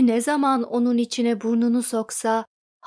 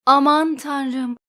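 slow, drawn-out wailing "aman tanrım"; chorus of cries; 3 semitones higher, 4 dB louder, slower than usual. Acted. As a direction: kitchen folk crying out together, slowly. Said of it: "diye koro halinde bağırıştı".

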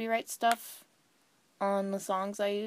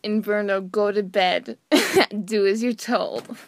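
stern command; 7 dB louder than usual. Acted. Misread line, stern command.

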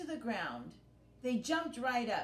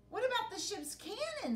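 pirate Dots voice; 12 semitones higher than usual. Acted.

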